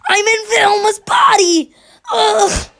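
high, loud cartoon Shaggy voice; Shaggy impression. Kid redoing his Shaggy impression for friends, high and loud. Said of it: "I've already done my impression".

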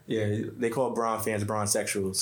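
slow, laughing through the joke. Real, not acted. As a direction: chuckle while delivering the punchline. Joking about LeBron fans.

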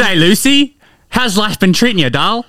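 put-on Australian accent. Greeting a friend in a pub skit, put-on Australian accent. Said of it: "You gotta put it on".

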